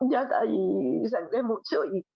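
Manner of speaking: fighting back real tears as she says it; slow, tearful, barely holding together; crying. Real, not acted. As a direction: voice breaking into tears, slowed. Retelling losing her baby.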